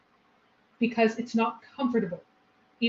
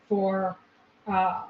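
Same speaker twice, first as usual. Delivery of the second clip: usual speaking voice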